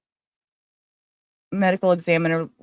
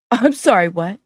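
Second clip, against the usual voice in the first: incredulous; 2 semitones higher, 7 dB louder than usual. Real, not acted. Incredulous reaction to judge's instruction.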